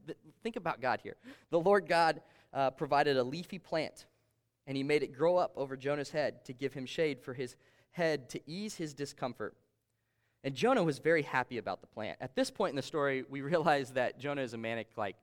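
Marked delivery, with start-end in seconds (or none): 1.5-12.2 measured Bible reading voice; scripture reading. Acted. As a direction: read the verse aloud, steady. Pastor reads Jonah's scripture aloud.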